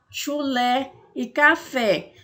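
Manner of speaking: chulé e café said slowly with the final "é" wide open; open vowel demo. Shown as a demonstration. Teacher showing pupils the open vowel, slow and clear. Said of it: "a nossa voz sai em tom aberto".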